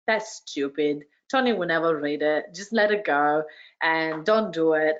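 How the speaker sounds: a hint of a dismissive voice talking her out of it; a doubting inner voice. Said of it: "a little voice in my head going".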